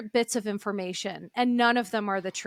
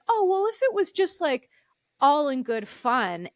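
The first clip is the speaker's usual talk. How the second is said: mock dismissive; 4 semitones higher than usual. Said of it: "give this bullshit answer saying".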